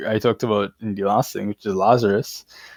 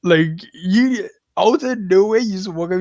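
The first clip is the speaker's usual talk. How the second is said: mock disbelief; 11 semitones higher than usual. Crowd reacting in disbelief, retold.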